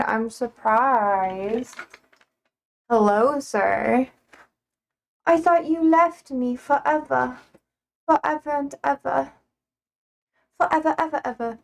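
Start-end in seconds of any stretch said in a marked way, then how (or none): 5.2-11.6 teasing mock hurt to a returning viewer; sassy fake abandonment whine, a touch higher. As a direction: pretend to be wounded, playfully. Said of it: "I'm just being sassy".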